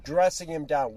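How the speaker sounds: usual speaking voice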